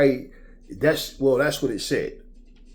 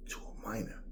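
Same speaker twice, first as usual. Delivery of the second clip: hushed whisper; 4 semitones lower, 14 dB quieter than usual. Real, not acted. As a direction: drop to a whisper on the word. Disgusted rhetorical question.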